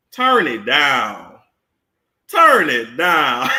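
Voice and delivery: slow, low plea to turn it down. Retold or imitated. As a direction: drag out turn it down. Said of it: "It's too much reverberation".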